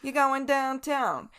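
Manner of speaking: high, hammed-up New England accent. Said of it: "I was attempting to do a New England accent".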